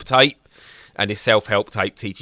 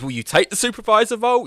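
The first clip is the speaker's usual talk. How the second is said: mock game voice; 12 semitones higher, faster than usual. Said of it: "when it goes".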